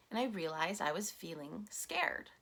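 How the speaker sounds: hushed whisper of realization; soft whispered confession. Real, not acted. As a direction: breathe it out as a private admission. Quiet realization after self-questioning.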